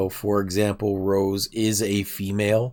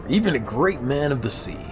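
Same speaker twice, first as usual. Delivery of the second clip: "even a great man of the sea" in a lightly raised character voice; sailor character voice; 3 semitones higher than usual. Acted. Sailor praising Dart, lightly voiced character. Character line, then echoed plainly.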